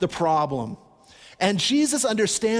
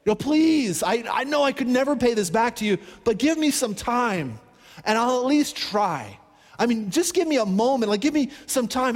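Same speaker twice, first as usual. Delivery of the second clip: begging for mercy; 4 semitones higher than usual. Retold or imitated. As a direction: beg the king for more time, desperate. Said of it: "he's just begging".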